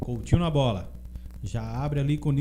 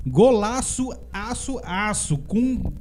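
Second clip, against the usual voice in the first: excited echo; 7 semitones higher, 5 dB louder than usual. Real, not acted. Echoing the goal call playfully.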